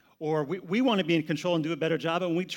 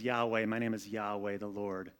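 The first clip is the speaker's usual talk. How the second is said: lower, softer, slow solemn divine voice; voice of God; 6 semitones lower, 7 dB quieter than usual. Acted. God proclaiming his name to Moses, low and solemn. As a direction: speak as God, grave and slow. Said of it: "He says".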